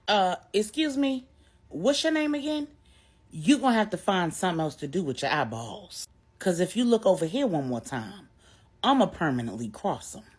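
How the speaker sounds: a fed-up woman's sharp threat at a rival. Acted. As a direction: put her in her place, all attitude. Stephanie fed up, threatening Star.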